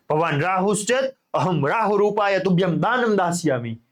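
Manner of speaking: mild stern king voice. Retold or imitated. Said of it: "કિંચિત ઉચ્ચૈઃ, થોડાક ઊંચા અવાજમાં".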